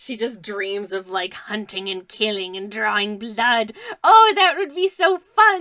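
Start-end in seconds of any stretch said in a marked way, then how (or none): 4.0-5.6 put-on very loud, high, wild feral little girl voice. Voicing a drawn little girl who dreams of hunting: voicing a feral little girl. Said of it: "she says".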